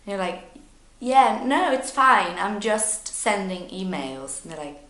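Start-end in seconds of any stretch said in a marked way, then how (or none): 1.0-4.4 acted nervousness. Nervous learner answering the wrong question, flustered. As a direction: brush it off, a touch nervous. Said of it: "happens when you're nervous".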